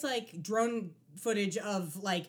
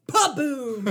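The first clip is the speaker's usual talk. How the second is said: explosion noise; 4 semitones higher, 11 dB louder than usual. Retold or imitated. Mimicking explosion.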